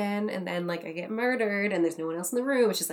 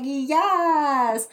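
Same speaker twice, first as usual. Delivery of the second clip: higher, louder over-eager agreement; mock eager yes; 6 semitones higher, 6 dB louder than usual. Actress agreeing to improvise French for casting director, mock eager.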